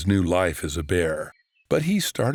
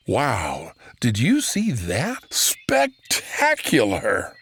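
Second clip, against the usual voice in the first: amazed; 3 semitones higher, 3 dB louder, much slower than usual. Acted. Bear amazed by falling leaf.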